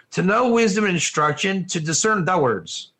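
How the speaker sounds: verse turning Texan at "the words". Shown as a demonstration. Teacher pronouncing the verse correctly, turning Texan on "the words". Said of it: "I became Texan".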